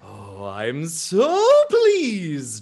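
loud, slow, rising gush; delighted elephant person. Acted. Elephant alien turns to greet a newcomer, hugely delighted. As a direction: swell into a high, drawn-out greeting. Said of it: "he turns to you, Ikemba, and says".

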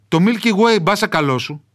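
a hint of a proud mountain villager showing off; old village dialect. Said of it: "με βαριά προφορά". (ελαφρά χωριάτικη φωνή με βαριά προφορά)

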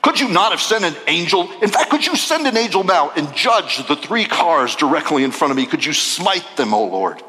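fast, exasperated mock prayer; whiny complaint prayer. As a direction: complain to God in a rush. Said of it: "I just go".

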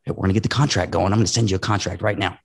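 fast, pushy contract pitch; hurried salesy demo of what not to say; wrong way. Shown as a demonstration. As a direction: rush them straight into the contract.

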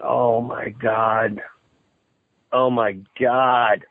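slow, drawn-out disbelief; stunned dismay. Retold or imitated. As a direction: retell the dread sinking in, word by word. Retells seeing the story spread.

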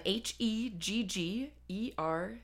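slow, each letter of H E G G E R T Y separate; spelled out letter by letter. Shown as a demonstration. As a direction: spell H E G G E R T Y out slowly. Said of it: "How is it spelled?".

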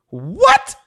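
surprised, rising "what?". Retold or imitated. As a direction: let the pitch jump in disbelief. Reacts to news of working with Denzel.

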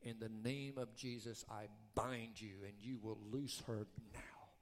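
hushed, steady binding prayer; whispered rebuke. Retold or imitated. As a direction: whisper it firmly into her ear. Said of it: "and whispered in her ear".

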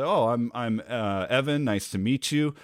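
stumbling over the name, uh, Evan; halting self-introduction with a pause before Evan; hesitant. Shown as a demonstration. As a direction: trip over your own name before getting it out. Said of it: "I hesitated on that".

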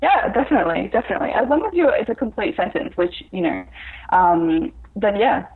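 muffled mic, voice sounds covered. Real, not acted. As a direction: talk through a muffled microphone. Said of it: "it sounds like you're muffled".

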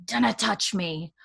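lightly put-on Scottish accent; imitated Scottish accent. Jamie recoiling from Claire, mock Scottish accent. Voicing Jamie in Scots dialect.

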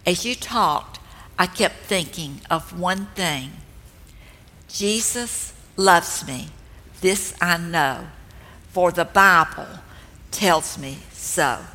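lightly voiced, tender elderly friend; gentle. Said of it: "and very gently she said".

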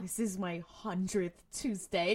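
weary, defeated mock complaint; haggard and tired. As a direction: drag it out like the hundredth repeat of the day. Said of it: "he looks fucking haggard".

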